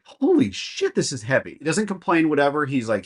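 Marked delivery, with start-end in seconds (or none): 0.0-1.5 strained surprise. Retold or imitated.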